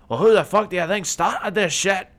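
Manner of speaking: loud, high, hammed-up indignation; mock outraged retort. Retelling the villains' comeback at the end, mock outraged. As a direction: throw it back as a loud mock accusation.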